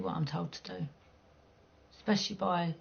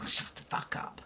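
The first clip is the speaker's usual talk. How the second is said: breathy, soft mock whisper; hushed retort; 7 dB quieter than usual. Telling rude people to shut up, in a mock whisper. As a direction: hiss the comeback under the breath. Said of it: "It's like".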